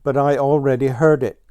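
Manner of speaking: quick, whiny complaint; complaining. Acted. Ground Squirrel grumbles to Blue Jay, quick complaint. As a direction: hurry the grumble out. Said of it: "complained Ground Squirrel".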